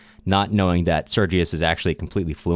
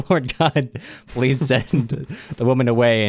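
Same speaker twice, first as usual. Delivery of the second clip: pleading to God, higher, through a laugh; a hammed-up frantic prayer, half laughing; mock desperate prayer; 4 semitones higher than usual. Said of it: "just, like, praying to God".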